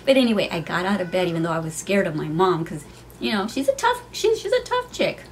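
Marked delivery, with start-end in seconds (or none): 3.5-5.3 high-pitched laugh through "tough chick". Real, not acted. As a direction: giggle as you call her tough. Laughing about tough mom.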